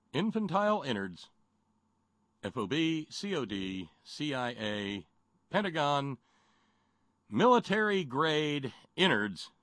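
hammed-up radio ad pitch; chipper 1950s ad. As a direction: oversell it like an old ad. Mock ad pitch.

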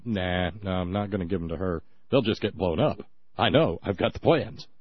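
low and quiet, smug refusal; low, quiet scheming voice. Pretend. Voicing Musharraf refusing armored cars.

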